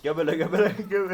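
loud, excited chant. Real, not acted. Rising excitement in game. (heyecanla bağırma)

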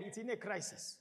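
ordinary delivery

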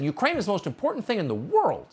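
quoting McConnell. Retold or imitated. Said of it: "As Mitch McConnell said".

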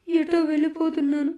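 sorrowful farewell. Acted. Runaway boy's farewell letter to his mother, sorrowful. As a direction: say goodbye on the verge of tears.

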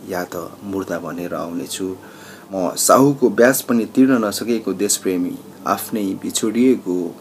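declaimed verse, pausing between phrases; poem recitation. Acted. Migrant worker's lament for home and lost love, recited as a poem. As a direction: launch each line strongly and let it fall away.

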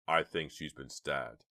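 slow, shaky voice; slow shaky words in shock. Acted. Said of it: "he said in a shaky voice".

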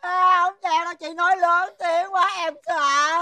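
high, whiny mock crying; high-pitched tearful complaint; childish wailing. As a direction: wail like a frightened child. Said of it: "nín, nín, nín".

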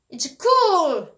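high, loud, impressed cheer; enthusiastic praise. Shown as a demonstration. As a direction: lift it high like big praise. Praise set against its opposite.

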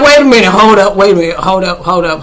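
loud mock-startled interruption; hammed-up "stop everything" reaction; startled halting. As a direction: call a sudden halt. Acted startled reaction to the movie.

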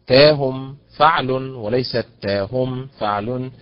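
تاهم said twice, second take with the stress moved; stress pattern contrast. Shown as a demonstration. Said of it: "هكذا". (مقارنة النبر)

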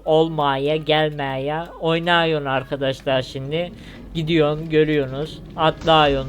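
light Karabük dialect demonstration; Karabük accent. Shown as a demonstration. Gamer showing viewers how Karabük talks, local Turkish accent. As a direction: list the words in a Karabük regional accent. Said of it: "Karabük'te konuşulan şive şu".

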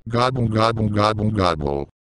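gobble like a turkey; mild turkey gobble imitation; gobbling turkey voice. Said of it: "why are you gobbling like a turkey".

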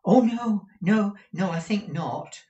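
high, emphatic character voice; high-pitched, loud opening then easing; Smike's anxious denial. A narrator's reading. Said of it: "replied Smike".

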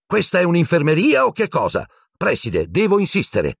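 high, overwrought protest; hysterical. A narrator's reading. Nurse insisting to the headmaster, hysterical. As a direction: protest at wits' end. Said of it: "in tono isterico".

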